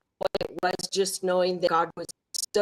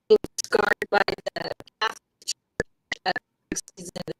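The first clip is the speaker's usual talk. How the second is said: muffled, like talking underwater; bad connection, muffled and distant; much faster than usual. Real, not acted. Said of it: "You sound like you're underwater".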